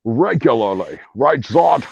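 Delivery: put-on low Scottish accent; Sean Connery. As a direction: chat casually as a Scottish film star. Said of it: "you get to talk with Sean Connery".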